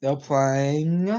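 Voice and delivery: losing voice, rough and strained; hoarse voice. Real, not acted. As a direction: talk through a voice that's going. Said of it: "I'm losing my voice here".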